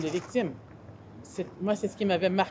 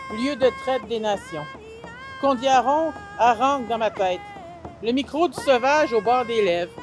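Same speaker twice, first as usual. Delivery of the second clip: declaimed poem in short weighted phrases; poem recital. Acted. Poet addressing Québec and ancestral roots, declaimed verse. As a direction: proclaim each line, pausing between images.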